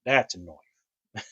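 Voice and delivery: slow, drawn-out attempt at an Aussie accent; hammed-up Australian, knife as "noif"; badly faked Australian accent, stretched out; Crocodile Dundee. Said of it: "Stupid accent that I'm trying".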